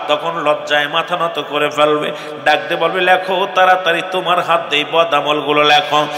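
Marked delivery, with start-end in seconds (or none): none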